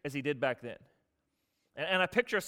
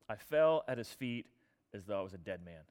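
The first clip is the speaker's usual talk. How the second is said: solemn awe; 8 semitones lower, 5 dB quieter than usual. Acted. John overwhelmed before glorified Jesus, solemn awe. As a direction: weigh it out gravely, then let it die away. Solemn repeat of John's words.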